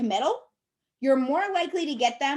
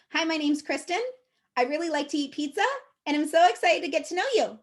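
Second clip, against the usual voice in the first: sentences end rising like questions, pitched a bit higher; uptalk demo; 4 semitones higher than usual. Shown as a demonstration. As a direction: say each statement as a question. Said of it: "listen to me say three more sentences".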